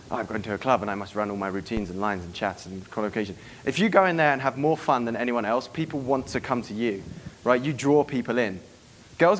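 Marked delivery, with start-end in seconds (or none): 0.1-3.3 lower, earnest recital of a plan; mock serious. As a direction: parody a guy taking it all too seriously. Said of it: "they're very serious".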